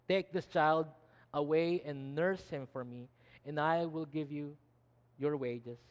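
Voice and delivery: measured, lightly voiced royal order; princess's command. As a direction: instruct a servant as a princess would. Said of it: "the princess gave a second command".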